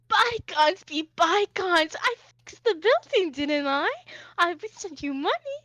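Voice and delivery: high, loud theatrical protest; flamboyant Hoshi, defensive. Acted. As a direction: brush off the complaint with grand indignation.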